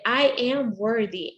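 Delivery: a bright smile in "I am worthy". Shown as a demonstration. Coach showing a smiling affirmation. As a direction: lift the pitch and say it smiling. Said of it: "raise the pitch in your voice, you say it with a smile".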